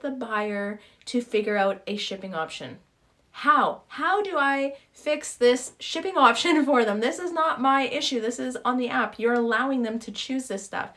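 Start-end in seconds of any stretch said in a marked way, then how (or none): 3.3-10.9 raised, exasperated rant. Real, not acted. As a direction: vent at the app, louder and higher. Venting frustration at the app.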